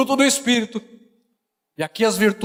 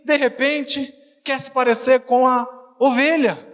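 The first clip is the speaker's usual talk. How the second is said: emphatic preaching; 4 semitones higher than usual. Real, not acted. Preaching in raised pitch.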